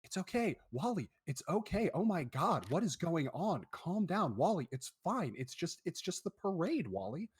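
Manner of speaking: lightly voiced anxious mother calming her boy; mild frantic comfort from a mom; worried mom. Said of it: "And his mom's like".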